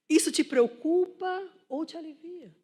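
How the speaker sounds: high, emphatic rhetorical question; forceful challenge. Real, not acted. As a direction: press the congregation to reflect. Repeats question forcefully to make them reflect.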